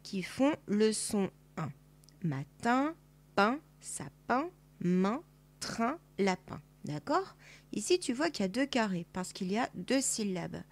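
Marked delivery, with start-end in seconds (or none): 2.2-6.6 each word said slowly for dictation; slow word list reading. Shown as a demonstration. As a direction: read the words out to the child. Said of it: "recopier les mots". (mots dictés lentement, un par un)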